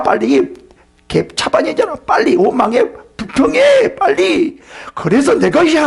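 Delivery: high, jeering tempter urging them on; taunting Satan. Acted. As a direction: goad them like Satan egging on grumbling. Preacher voices Satan tempting believers.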